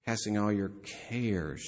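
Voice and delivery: meditative reading landing on "cares"; stress on CARES. Shown as a demonstration. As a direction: lean on "cares" as the word to ponder. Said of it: "you start emphasizing different words".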